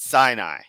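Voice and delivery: "Sinai" as SIGH-nye, falling; corrected pronunciation. Shown as a demonstration. Commentator insisting on the spelling, "Sinai" as SIGH-nye. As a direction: land "Sinai" firmly in two syllables. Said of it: "they should have put that in there".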